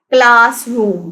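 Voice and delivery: क्लासरूम slowly split into class and room; syllable by syllable. Shown as a demonstration. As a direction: stretch both halves of क्लासरूम. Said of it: "क्लासरूम के भी टू syllables हैं".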